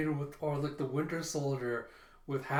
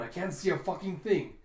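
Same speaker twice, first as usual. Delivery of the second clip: raised, irritated complaint; higher-pitched acted exasperation; exasperated; 4 semitones higher, 3 dB louder than usual. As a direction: snap it out in frustration at the screen. Jonah angry at lost feed.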